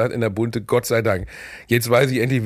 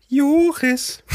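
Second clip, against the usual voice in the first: high-pitched quote; 4 dB louder than usual. Retold or imitated. Woman recognises him as Joris.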